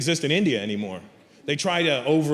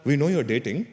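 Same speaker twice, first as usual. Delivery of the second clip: put-on coaxing Indian-accented parent; mock Indian parent, gently suggesting. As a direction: nudge your son in an Indian accent. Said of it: "around eighteen they go".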